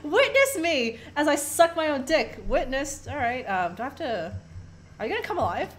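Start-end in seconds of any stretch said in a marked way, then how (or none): 0.0-2.4 loud, high, slow hammed-up declaration; mock proclamation. Player voicing the dead man's boast, mock-heroic. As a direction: proclaim it grandly and drawn out.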